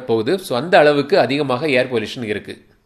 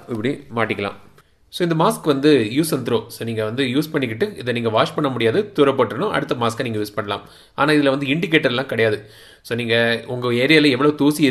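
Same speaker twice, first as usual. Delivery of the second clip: muffled behind respirator; speaking through filter mask; through a face mask. Real, not acted. Seen 0: Black valved mask covers nose and mouth throughout labelled words.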